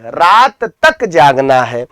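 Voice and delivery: slow, weighted "तक"; stress on तक. Shown as a demonstration. Teacher correcting the example sentence for students, stress on "तक". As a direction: draw out "रात" and land firmly on "तक". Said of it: "शब्दों पर जब बलाघात किया जाए".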